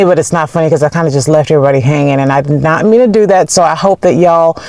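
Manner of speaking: stiff lips from the cold; talking with frozen lips; frozen mouth. Real, not acted. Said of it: "I'm talking different because it's cold outside".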